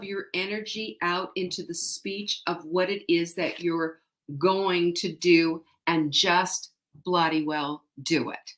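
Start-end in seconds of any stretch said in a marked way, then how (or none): 6.1-8.5 slow, firm delivery; slow, no-nonsense instruction; emphatic fatherly order. Shown as a demonstration. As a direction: spell it out slowly and firmly. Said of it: "That's from my father".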